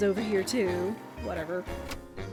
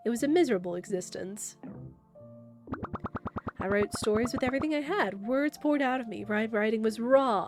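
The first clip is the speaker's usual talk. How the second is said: slow theatrical villain menace. Acted. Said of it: "I'm sensing a villain speech coming".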